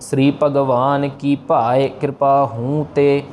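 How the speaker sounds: slow devotional recitation of the line. Shown as a demonstration. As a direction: chant it slowly, word by word. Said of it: "पहली पौड़ी की last वाली पंक्ति". (धीमा पाठ)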